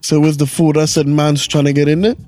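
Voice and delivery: London roadman storytelling voice; playful London street accent; mock British accent. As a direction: imitate British street slang. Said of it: "these Brits talk so goofy".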